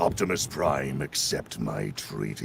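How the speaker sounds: very low and slow, dipping and rising pitch. Showing how the voice goes up and down: Megatron voice, rising and dipping. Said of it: "the smooth part of the Megatron voice".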